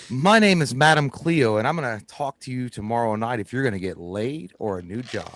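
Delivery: Madam Cleo psychic ad. Retold or imitated. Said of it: "it's no different than a".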